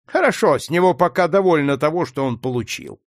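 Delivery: a lightly voiced gruff planter; mild dismissive master; Legree's voice. A narrator's reading. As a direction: slaveholder brushing it off, lightly voiced. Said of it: "сказал Легри".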